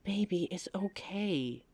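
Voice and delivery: slow, soft reassuring whisper; tender whispered comfort; soothing whisper. Acted. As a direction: hush her fears gently. Comforting partner after bite.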